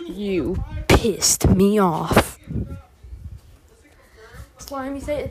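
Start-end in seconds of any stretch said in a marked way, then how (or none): 0.1-2.4 mock angry. Battle taunt at enemy.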